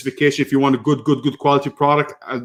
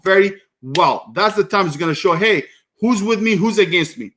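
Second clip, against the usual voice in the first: indignant. Retold or imitated. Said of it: "I was very pissed about it".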